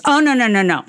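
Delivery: a hint of Todd, calmly correcting, then slowing. Toddler son correcting his mother, lightly in Todd's voice. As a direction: gently set her straight, lightly voicing Todd. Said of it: "in a very Todd voice goes".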